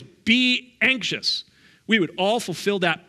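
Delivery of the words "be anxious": "Be anxious" very slow, higher and louder, a playful fake order; mock command. Shown as a demonstration. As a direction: tease it as a command we all obey. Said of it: "if the command was".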